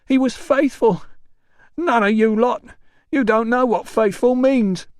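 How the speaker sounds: put-on high, loud drunken rant; drunk shouting porter. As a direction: rant at the whole bar. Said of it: "The orderly waved an arm".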